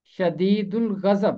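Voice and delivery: شدید الغضب with a clear ghain in ghazab; teacher models شدید الغضب; careful pronunciation. Shown as a demonstration. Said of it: "اس کا تلفظ ہے شدید الغضب".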